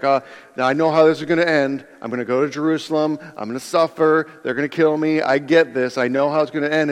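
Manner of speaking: rattled-off list of coming doom; imitated fatalist, quick at first; cynical, fatalistic. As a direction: recite the bad news as a foregone conclusion. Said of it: "he's having this cynical outlook".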